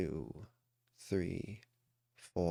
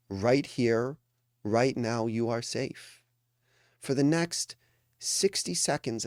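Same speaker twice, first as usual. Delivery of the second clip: higher, deliberate phrases with pauses between; emphatic reassurance; 3 semitones higher, 4 dB louder than usual. Real, not acted. Coach telling a meditating group they are safe, emphatic reassurance. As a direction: press each reassurance home, word by word.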